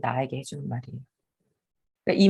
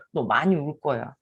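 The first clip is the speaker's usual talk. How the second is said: gentle warning; 3 semitones lower than usual. Shown as a demonstration. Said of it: "얘기를 해줘야 돼".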